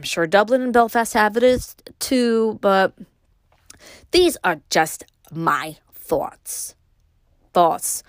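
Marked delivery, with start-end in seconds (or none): 4.1-6.7 slow breathy whisper, drawn out; whispered aside. Real, not acted. Musing aloud to listeners, slow whisper. 7.5-8.0 "Thoughts" with a Brooklyn vowel, said short and clear; Brooklyn accent. Real, not acted. Host catching her own Brooklyn "Thoughts". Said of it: "my Brooklyn accent just came out there".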